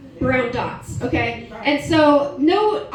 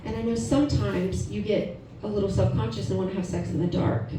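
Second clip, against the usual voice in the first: softer, lower, with halting pauses; mild coaxing husband; 4 semitones lower, 5 dB quieter than usual. Retold or imitated. Husband outside the bathroom coaxing his wife, mildly hushed and earnest. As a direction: gently talk her into it, lightly voiced.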